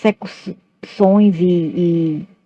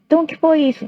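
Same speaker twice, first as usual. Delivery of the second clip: much higher imitated parental challenge; questioning mother; 10 semitones higher, much faster than usual. Mother doubting her child's denial, imitated high questioning. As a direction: press the child for an explanation. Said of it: "minha mãe falava".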